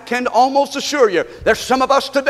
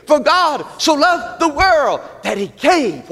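raised, emphatic scripture recital; impassioned preaching; 6 semitones higher, slower than usual. Real, not acted. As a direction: lead the congregation firmly through the verse. Leads congregation in verse.

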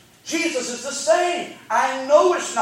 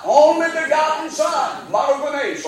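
preaching shout; 4 semitones higher than usual. Real, not acted. Preacher shouting the answer back to his congregation. Call-and-response preaching climax.

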